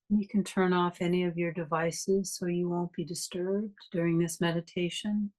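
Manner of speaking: calm, even guiding voice with long pauses; guided meditation. Real, not acted. Meditation teacher leading a class to notice breathing, guided meditation. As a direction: guide listeners gently through the breath, unhurried phrases between long silences.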